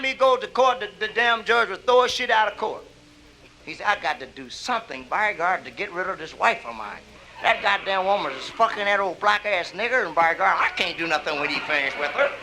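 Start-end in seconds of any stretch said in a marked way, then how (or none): 3.9-12.3 lowered white man. Acted. White man's complaint voiced.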